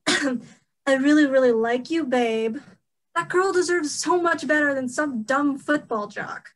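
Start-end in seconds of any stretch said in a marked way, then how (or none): 0.1-2.6 drawn-out mock lovey-dovey quote; mocking boyfriend imitation. Quoting a jock boyfriend back at him, mocking. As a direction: mimic a sappy boyfriend, slowly at first. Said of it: "all you've said so far is".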